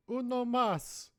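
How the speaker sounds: put-on high, slow slurred drunk order; drunk bar order. Ordering beer, voice escalating.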